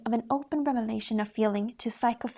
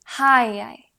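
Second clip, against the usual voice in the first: loud curving hi thrown across a valley; long high call; 9 dB louder than usual. Shown as a demonstration. Calling to a friend across the mountains. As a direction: call out to a friend on the far peak. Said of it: "call a long, high curving".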